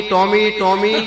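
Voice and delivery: loud drawn-out call for the dog; host yelling for his dog Tommy. Retold or imitated. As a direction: shout the dog's name long and high, laughing through it. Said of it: "ત્યાં તો હરિભાઈ રાડ પાડી".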